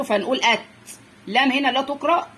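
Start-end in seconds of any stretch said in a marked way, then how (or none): 0.4-0.6 أت closed on the ت; joined to sukun. Shown as a demonstration. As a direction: stop short on the ت of أت. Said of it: "بيتقال مع اللي قبله".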